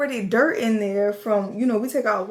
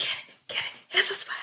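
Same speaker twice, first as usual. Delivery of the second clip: frantic, urgent, frenzied hushed whisper; 10 semitones higher, 8 dB quieter than usual. Recounting a spider scare, retelling whispering to the listener's dad: retelling a whisper. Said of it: "foolishly whispering to your dad".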